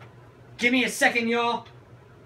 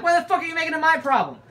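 exasperated retort; 7 semitones higher, much faster than usual. Retold or imitated. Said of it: "And I'm like".

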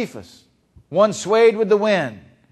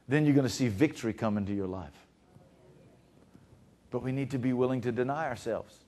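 softer, lower, earnest sermon tone; hushed preaching; 4 semitones lower, 6 dB quieter than usual. Acted. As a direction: bring the congregation in close. Quiet intense preaching.

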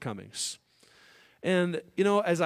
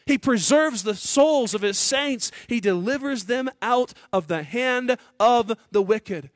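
preaching at full force; 8 semitones higher, 6 dB louder than usual. Acted. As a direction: proclaim it from the pulpit with full force. Pastor preaching the Psalm.

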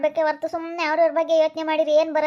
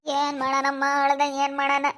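helpless weeping lament; crying. Acted. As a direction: sob between the phrases, at a loss. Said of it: "ಯಾಕ್ aunty ಅಳ್ತಾ ಇದೀಯಾ?". (ಅಳುತ್ತಾ, ದಿಕ್ಕು ತೋಚದೆ)

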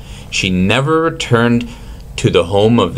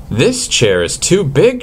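exclaiming in a higher voice; a little girl's raised complaint; 7 semitones higher than usual. A narrator's reading. Goldilocks in the too-big chair, exclaiming higher. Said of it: "she exclaimed".

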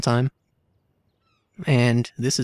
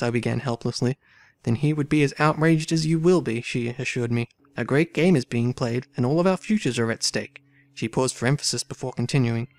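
dramatic story reading. A narrator's reading. Player reading game dialogue aloud, lively character reading. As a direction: voice the valet's protest, then the lady's demand. Voicing valet and thief.

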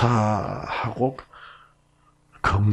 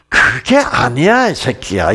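mock rough retort. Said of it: "이렇게 나오진 않잖아요".

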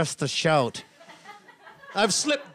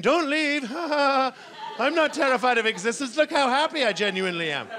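put-on desperate toddler; 6 semitones higher than usual. Toddler pleading with a parent.

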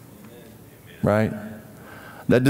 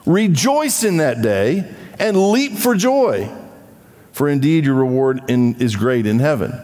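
joyful reading. Shown as a demonstration. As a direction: proclaim it with joy. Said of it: "What does it say?".

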